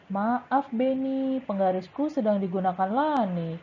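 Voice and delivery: lifted, lively reply as Dayu; role-play as Dayu. Shown as a demonstration. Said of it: "Bu Guru yang menjawab juga".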